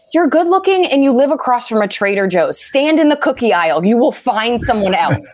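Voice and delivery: sarcastic advice. Retold or imitated. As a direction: tell him he'll be fine, dry. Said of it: "I was just like".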